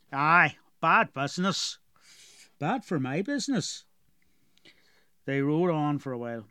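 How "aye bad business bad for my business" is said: put-on gruff dwarf with a heavy rural accent; strong dwarf accent. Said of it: "Galoric had a very strong accent".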